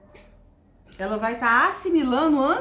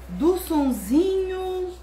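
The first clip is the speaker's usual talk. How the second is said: slow, higher sing-song; drawn-out teaching; 5 semitones higher, much slower than usual. Shown as a demonstration. Teacher demonstrating a lesson for children, drawn out. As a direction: stretch it out for little listeners.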